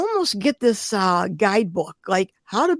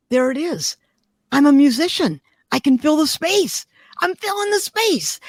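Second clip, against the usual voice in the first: rising excitement; 5 semitones higher than usual. Retold or imitated. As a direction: let the discovery burst out, higher each line. Retold moment of revelation.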